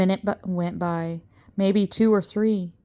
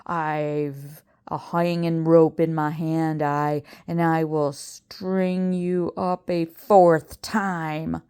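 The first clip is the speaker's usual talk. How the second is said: threatening command; slower than usual. Acted. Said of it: "he commanded".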